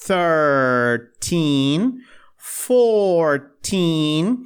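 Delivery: put-on Thirteen, fourteen with the beat on teen; stress on teen. Shown as a demonstration. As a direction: lean on the teen syllable. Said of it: "A sílaba tônica é mais o teen". (tônica no teen)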